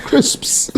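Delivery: "Crisps" with the final s-p-s fully sounded; careful pronunciation. Shown as a demonstration. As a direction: carefully hiss out every ending consonant of "Crisps". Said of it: "African can't say crisps".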